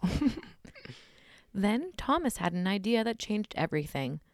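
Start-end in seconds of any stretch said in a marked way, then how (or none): 1.6-4.2 measured scary-story reading; story narration. A narrator's reading. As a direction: read it like a campfire tale. Reads a scary story aloud.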